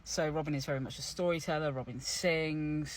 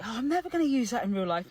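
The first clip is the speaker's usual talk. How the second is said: dismissive younger self; 7 semitones higher, 6 dB louder, faster than usual. Retold or imitated. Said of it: "And I was like".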